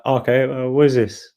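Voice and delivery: rough French Canadian impersonation; George's French Canadian accent. Retold or imitated. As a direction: ask it as a baffled French Canadian, roughly mimicked. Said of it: "I can't do the accent, I'm so bad".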